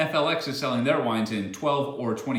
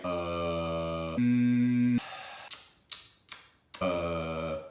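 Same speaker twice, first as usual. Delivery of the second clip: filler sounds; 7 semitones lower, 4 dB quieter, much slower than usual. Shown as a demonstration. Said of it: "getting out all the stuff like".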